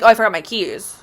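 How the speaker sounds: casual, offhand line as if nothing happened; nonchalant. Retold or imitated. To the landlord, covering up, mock nonchalant. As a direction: tell the landlord breezily, no big deal. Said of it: "I'm very nonchalant about it".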